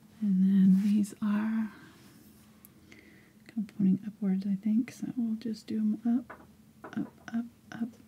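soft whisper. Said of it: "I'm whispering again".

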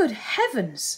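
sudden, burst-out exclaiming. Eleanor reacts to Colonel Brandon's story about Eliza, exclaiming. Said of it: "exclaimed Eleanor".

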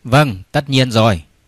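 ordinary talk

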